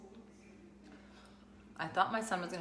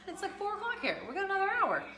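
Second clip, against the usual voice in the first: laughing quote; 14 semitones higher, 3 dB louder than usual. Retold or imitated. Retold call, laughing.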